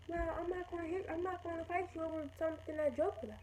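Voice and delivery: high, held-up voice imitating the other girl; backing down. Other girl refuses to fight over a joke, backing down. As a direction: pitch it well up, protesting.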